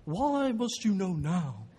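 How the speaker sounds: put-on slow, drawn-out exasperated old Dutchman; elderly Dutch professor. Professor grabbing his student by the shoulders, old Dutch voice. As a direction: stretch each "why" as a ponderous demand. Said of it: "elderly Dutch man with a voice box problem".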